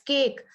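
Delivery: "cake" with the vowel drawn out long. Shown as a demonstration. Teacher demonstrating a long vowel. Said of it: "थोड़ा सा और लंबा खींचना पड़ रहा है".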